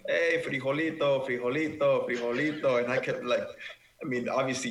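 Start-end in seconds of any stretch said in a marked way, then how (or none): 0.1-2.8 imitating a repeated call, higher-pitched; mock yell, pitched up but only a little louder; retold yelling. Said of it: "you kept yelling".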